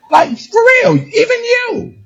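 high, stressed cry of EVEN you; like you mean it. Shown as a demonstration. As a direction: pour conviction into "you". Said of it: "You gotta say it like you mean it".

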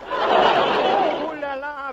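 slow flirtatious ooh la la; slow charmed ooh la la. Acted. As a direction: savour it, Irish flirt. Setter charmed by poodle.

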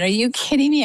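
can't believe the news; shocked disbelief. Retold or imitated. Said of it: "I said".

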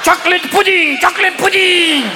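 high, sustained gleeful proclamation; pope with dementia. Acted. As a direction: proclaim it to a stadium like a batty old pope. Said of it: "didn't have dementia in Yankee Stadium going".

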